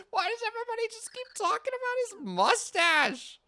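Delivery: laughing. Real, not acted. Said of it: "laughing complaint".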